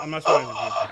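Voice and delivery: breathy, pleading whisper of protest; whispered plea. Real, not acted. Pleading whisper to co-hosts he's not spoiling. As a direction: whisper it like begging to be believed.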